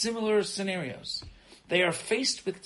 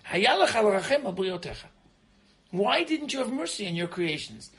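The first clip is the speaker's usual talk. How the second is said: higher, louder anguished plea; pleading with God; 6 semitones higher, 4 dB louder than usual. Retold or imitated. Noach crying out to God after the flood, pleading. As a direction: cry out to God for mercy. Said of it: "and he says".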